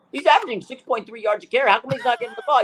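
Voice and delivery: high-pitched retold question, through amusement; imitated insistent reporter; imitated questioner.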